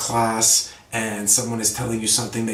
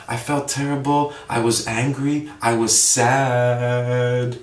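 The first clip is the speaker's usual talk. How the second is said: mock sad; slower than usual. Shown as a demonstration. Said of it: "instead of saying".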